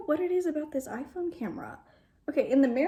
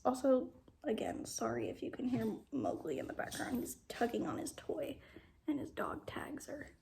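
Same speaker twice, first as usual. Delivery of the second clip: whisper; 6 dB quieter than usual. Real, not acted. Whispered aside about dog.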